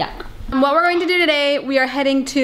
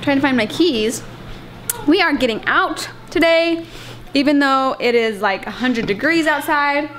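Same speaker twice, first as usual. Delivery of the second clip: chewing gum. Real, not acted. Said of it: "Sorry, I'm chewing gum".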